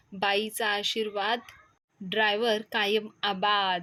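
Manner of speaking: slow, drawn-out taunt; deliberate teasing. Acted. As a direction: stretch each word to needle a rival. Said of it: "दत्ताला चिडवण्यासाठी मुद्दाम म्हणत असतात". (चिडवत, मुद्दाम लांबवून)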